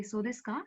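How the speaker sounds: "So desu ka?" rising on ka; a light question rise on "ka". Shown as a demonstration. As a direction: end "So desu ka?" on an upturn. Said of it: "It's a rising intonation".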